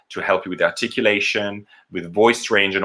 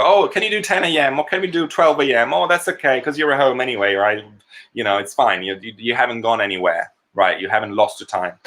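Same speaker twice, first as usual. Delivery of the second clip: higher, mock-breezy pushy client; 3 semitones higher than usual. Coach imitating clients asking for odd recording hours, mock breezy. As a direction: imitate a client brushing off your time.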